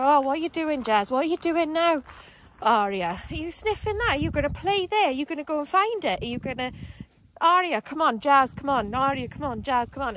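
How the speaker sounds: lightly mocked nonstop pet chatter; imitating chattering dog owners. Owner nattering to dogs on a walk, mock chatter. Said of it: "they don't shut up using their dog's name".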